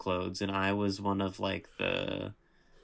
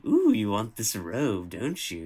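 a hint of a campy villain; lightly voiced tempting villain; flamboyant Disney villain; 2 semitones higher, 6 dB louder than usual. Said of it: "exaggerated kind of flamboyant, like, Disney gay kind of voice".

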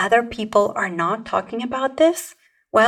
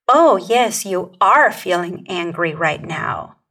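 a louder, mocking "Oh, yes" that brushes the feeling off; dismissive tone; 2 semitones lower, 4 dB louder than usual. Shown as a demonstration. Coach shows the wrong way, dismissive and mocking. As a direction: sound condescending and uncaring. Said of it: "How not comforting that tone of voice is".

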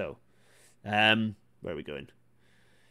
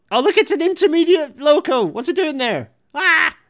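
much higher and louder, bursting with delight; thrilled; 10 dB louder than usual. Real, not acted. Rail fan spots an intermediate loco on video, thrilled.

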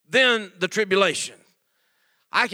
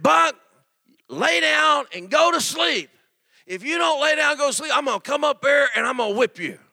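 stern father; 5 semitones higher than usual. Retold or imitated. Father threatens son in story.

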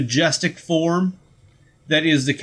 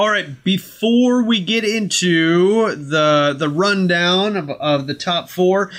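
mock ad read. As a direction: sell it like a radio ad.

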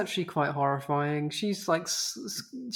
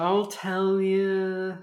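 mock crying; much slower than usual. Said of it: "ugly crying".

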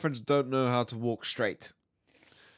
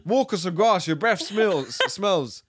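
laughing tease; 6 semitones higher, 4 dB louder, slower than usual. Real, not acted. Teasing about breath, laughing.

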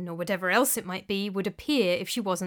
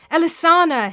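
ghostly cry; 8 semitones higher, 9 dB louder than usual. A narrator's reading. Dead husband crying out for his wife, loud and high. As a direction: cry her name like a dying man. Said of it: "his voice cried out".

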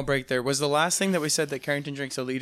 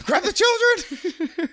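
panicked shout; 4 dB louder, much slower than usual. Pretend. Mock panic, laughing.

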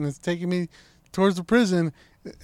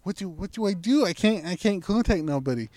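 higher, louder retold dithering; freaking out; 5 semitones higher, 4 dB louder than usual. Driver stuck with undeliverable pizza at prison, freaking out. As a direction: tumble through the options in mock panic. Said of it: "I'm freaking out at this point".

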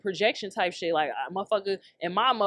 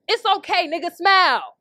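mock slogan; 6 semitones higher, 4 dB louder than usual. Shown as a demonstration. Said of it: "I should make that t-shirt".

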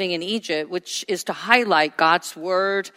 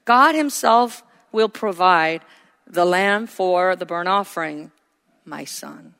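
calm and unhurried, slow; an unbothered father reassuring his son; nonchalant; slower than usual. Acted. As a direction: say it easily, no worry at all. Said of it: "nonchalantly said".

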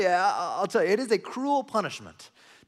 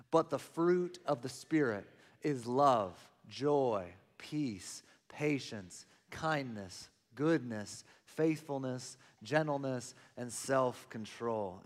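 many voices in unison; 2 semitones lower, 3 dB quieter, much slower than usual. Real, not acted. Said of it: "in one voice, let's read this together".

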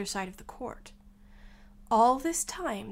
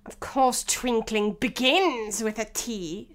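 mildly impatient King, loud at the end; sharp; 4 dB louder, slower than usual. Acted. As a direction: rebuke sharply in a lightly voiced King. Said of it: "said the king sharply".

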